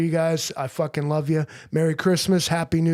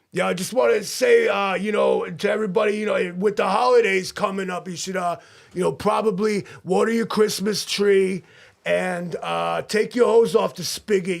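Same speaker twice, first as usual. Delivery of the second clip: holiday message voice; 5 semitones higher than usual. Acted. Holiday address in held character voice.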